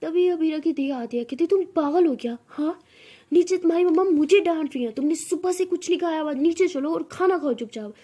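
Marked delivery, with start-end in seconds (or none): 1.5-7.9 loud, higher-pitched telling-off; scolding. Acted. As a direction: scold her like a bossy big sister. Older sister scolds about eating.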